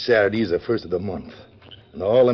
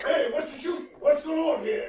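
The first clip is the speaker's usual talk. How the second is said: shout; 3 dB quieter than usual. Acted. Townsfolk rushing in after the holdup, shouting. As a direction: call out over the commotion.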